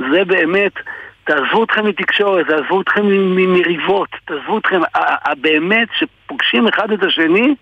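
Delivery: נלהב ומתרגש; passionate enthusiasm. Real, not acted. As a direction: pour out your amazement at the unity. Guest's heartfelt praise of the people.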